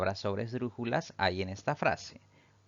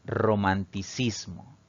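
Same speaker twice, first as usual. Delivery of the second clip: romanticismo drawn out slowly, each syllable clear; slow, deliberate answer. Shown as a demonstration. Teacher revealing the answer to students, slow and deliberate. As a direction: spell out romanticismo slowly for the class.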